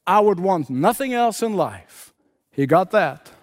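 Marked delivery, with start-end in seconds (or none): 0.1-2.1 imitated crying out. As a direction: cry out the wish, pitched well up. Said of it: "Then he cried out".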